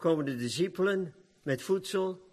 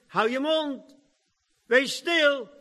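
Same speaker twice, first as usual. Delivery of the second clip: shushing rebuke; 8 semitones higher, 4 dB louder, slower than usual. Acted. Disciples hushing the blind man.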